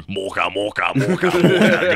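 droning machine chant of the word; robot voice. Retold or imitated. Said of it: "like, robotic voice going".

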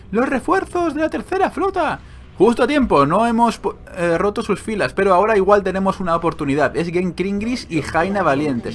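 high cry announcing reinforcements, easing into eager narration; heroic battle herald. Acted. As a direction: proclaim it like a fantasy war hero.

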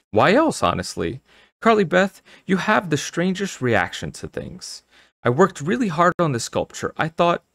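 high-pitched, exasperated mother voice; hurt mother. Acted. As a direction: complain with wounded pride, pitched high.

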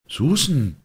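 high, exclaimed reproach; calling out. A narrator's reading. Mistress calls out to her maid, high exclamation. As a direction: cry out the maid's name. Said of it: "rief ihre Herrin".

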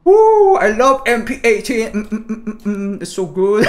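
high loud woo, gushing; excited cheer. Real, not acted. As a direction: cheer like you just won. Cheering over weapon.

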